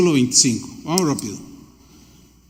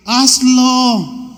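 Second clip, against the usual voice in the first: shouted command; 4 semitones higher than usual. Acted. Jesus commands, preacher shouts.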